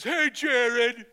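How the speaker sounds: put-on high, loud call of a tough kid; a hint of a bully calling out; bigger kid's challenge. Bigger kid confronts boys.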